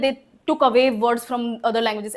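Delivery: slow, deliberate quote of what people say; slow quoting voice; slow quoted claim. Retold or imitated. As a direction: spell the claim out slowly. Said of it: "लोग बोलते हैं".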